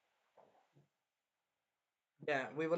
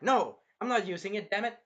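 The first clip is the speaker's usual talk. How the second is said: higher, louder acted refusal; mock defiant refusal; 5 semitones higher, 5 dB louder than usual. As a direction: refuse it firmly, imitating the hero. Acted refusal of tempting shield.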